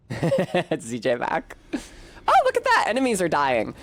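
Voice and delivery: lightly played ditzy bimbo; a hint of a gum-smacking floozy. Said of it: "bimbo voice terminated".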